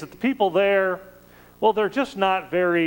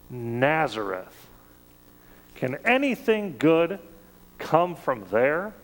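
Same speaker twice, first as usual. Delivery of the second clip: disdainful scoff. Retold or imitated. Nathanael scoffing to Philip about Jesus's hometown, mild disdain. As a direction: sniff at the town as a backwater, unimpressed. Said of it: "in his disdain".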